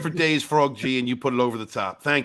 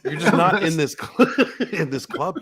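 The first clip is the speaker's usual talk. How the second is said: laughing; 4 semitones higher, slower than usual. Real, not acted. Teasing Katie while laughing.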